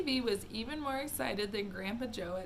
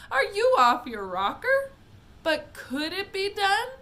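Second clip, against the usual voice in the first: excited Wonka; 10 semitones higher, 12 dB louder than usual. Acted. Wonka exclaims to Mike.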